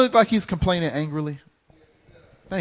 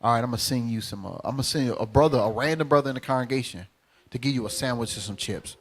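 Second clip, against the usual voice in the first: lower, calm voice of God; calm God answering; 6 semitones lower, 4 dB quieter than usual. Retold or imitated. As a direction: answer the prayer patiently from above. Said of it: "He said".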